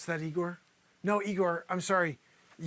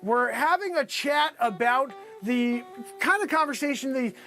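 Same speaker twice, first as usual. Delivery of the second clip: slightly raised on-air reporter delivery; news reporter; 5 semitones higher than usual. Acted. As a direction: announce it to the viewers, stretching the station name. Resumes his TV reporter act.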